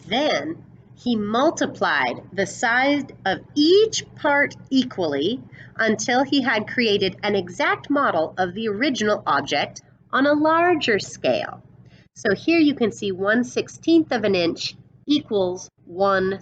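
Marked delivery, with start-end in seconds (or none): 0.1-11.6 put-on storyteller reading a picture book to kids; read-aloud storybook voice; story narration. A narrator's reading. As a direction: paint the western showdown for the class.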